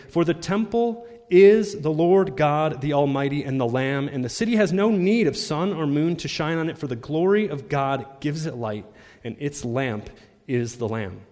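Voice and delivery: forceful public Bible reading; emphatic scripture reading. Acted. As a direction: proclaim the verse, easing down at the end.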